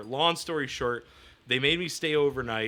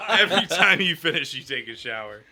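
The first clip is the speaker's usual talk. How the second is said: mock dad line; 3 semitones higher, 9 dB louder than usual. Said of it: "That sounds more like something he should say".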